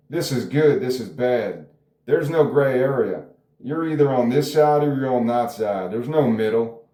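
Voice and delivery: lightly mocked Southern us-or-them preaching; Southern accent. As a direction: put on a mild Southern accent. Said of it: "I'm doing a Southern accent".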